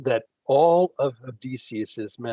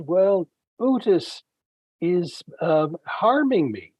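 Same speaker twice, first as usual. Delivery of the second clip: higher, louder pained complaint, slow start; giant in pain; 6 semitones higher, 4 dB louder than usual. Retold or imitated. Blinded Polyphemus answering his neighbours, mock pained cry. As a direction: wail it out like a hurt giant. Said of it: "he cries out in pain".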